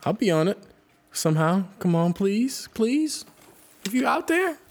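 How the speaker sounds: rising, pleading plea. Real, not acted. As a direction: beg to be on it. Begging to join album.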